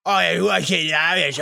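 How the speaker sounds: hammed-up old man mumbling; badly faked old Australian man. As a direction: mush the words like a caricature old man. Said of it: "the old man voice and the Australian".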